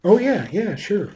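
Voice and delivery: mock offhand "sure, okay, yeah, yeah"; dismissive brush-off. Shown as a demonstration. Leader showing an employee he isn't really listening. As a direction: toss it off as if you're not listening. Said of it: "You see the difference?".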